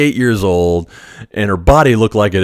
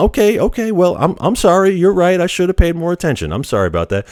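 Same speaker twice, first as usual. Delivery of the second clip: placating, soothing tone, pitched up; 10 semitones higher than usual. Retelling own words to a screaming coworker: retelling own calming words. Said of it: "just trying to, like, calm her down".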